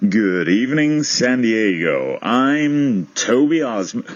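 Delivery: slow, grand anchorman sign-on; Ron Burgundy. Acted. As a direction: draw it out like a pompous TV anchor. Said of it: "do the whole thing as Ron Burgundy".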